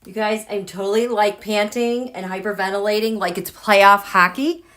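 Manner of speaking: breathy, out of breath excitement. Real, not acted. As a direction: speak on quick panting breaths. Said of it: "I know I sound very breathy".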